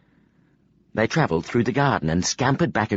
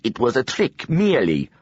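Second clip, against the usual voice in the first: put-on defensive boy in a thick Vin accent; Vin-accented boy brushing off teasing; 4 semitones higher than usual. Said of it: "a boy with a thick Vin accent replied".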